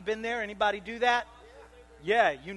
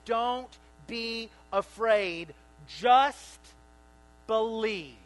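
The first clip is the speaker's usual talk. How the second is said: Jesus encouraging; 6 dB louder, much slower than usual. Retold or imitated. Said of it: "He says".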